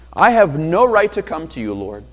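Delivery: lightly voiced desperate mother pleading; pleading woman. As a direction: beg for any crumb from the table. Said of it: "She essentially admits".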